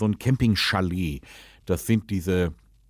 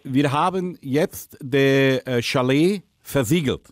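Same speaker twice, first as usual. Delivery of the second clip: put-on Dutch accent, lisping. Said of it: "rede, lispeln und Holländisch".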